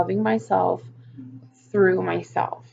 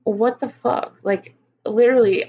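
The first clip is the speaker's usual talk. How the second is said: exasperated disbelief; 3 semitones higher, 3 dB louder than usual. Real, not acted. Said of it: "freaking out".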